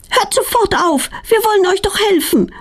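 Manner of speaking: put-on a girl scolding the angry bees, high-pitched. A narrator's reading. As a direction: tell the bees off sharply. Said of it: "meckert Petronella".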